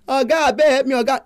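high pleading with a crying edge; mock-tearful widow begging the judge for help. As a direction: beg the judge through tears. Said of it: "he carry this woman comot".

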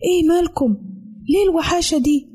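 mother's high scolding call; scolding yell. A narrator's reading. Mother scolding her fighting children, a high scolding yell. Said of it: "راحت زعقت فيهم وقالت لهم".

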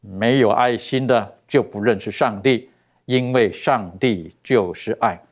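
slow, measured verse recitation from the diaphragm; projected recitation. Shown as a demonstration. Students reciting the verse for their teacher to train the voice, projected. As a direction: recite it deliberately with belly support. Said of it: "用腹部丹田的力量".

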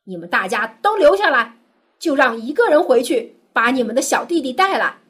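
severe and unyielding; laying down his terms, not giving an inch; stern. Acted. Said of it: "约瑟还是非常严厉". (严厉地说)

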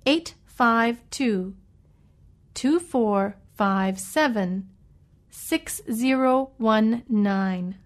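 slow letter-by-letter spelling; dictating. Shown as a demonstration. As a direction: spell it out for listeners. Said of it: "let me give you our number".

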